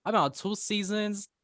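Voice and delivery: high indignant complaint; mock rant. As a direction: keep the huffy rant going. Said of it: "This is my rant era".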